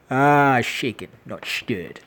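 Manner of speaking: mock Indian-Scottish accent, drawn out slowly; slow, slurred joke Indian-Scottish accent; Sean Connery. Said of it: "with an Indian Scottish accent".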